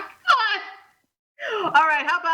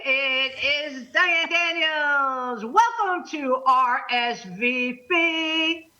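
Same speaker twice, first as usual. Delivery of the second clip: slow host welcome; much slower than usual. Acted. Host opening the show.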